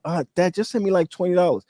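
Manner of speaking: high, sweet asking daughter. Retold or imitated. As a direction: ask Dad sweetly for cash. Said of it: "she asks".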